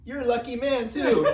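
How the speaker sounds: high, loud gushing imitation of a stranger; yelling lady impression. Husband imitates a lady complimenting his wife, high gushing yell. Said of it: "this lady ... she yells at us".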